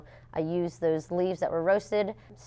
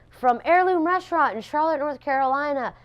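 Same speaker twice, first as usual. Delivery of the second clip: high, louder ceremony announcer voice; imitating the announcer; 9 semitones higher, 5 dB louder than usual. Presenter reading out the winner, imitated announcer voice. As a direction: announce it like a host on stage. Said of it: "she goes".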